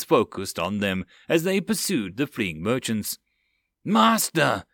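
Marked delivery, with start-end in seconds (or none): 3.8-4.6 cried out. Acted. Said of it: "the first mate cried out".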